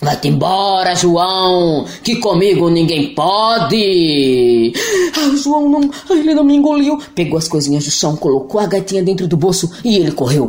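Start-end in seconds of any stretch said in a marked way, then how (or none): 0.0-4.7 booming monster. Acted. 5.2-7.0 put-on relieved boy. João aliviado.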